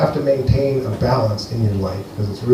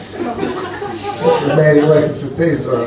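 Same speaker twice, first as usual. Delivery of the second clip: laughing; slower than usual. Real, not acted. Someone else cracking up.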